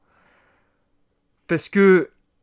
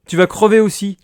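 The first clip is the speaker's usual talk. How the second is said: mock threat; 3 semitones higher, 4 dB louder than usual. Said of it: "je dis à Robocop".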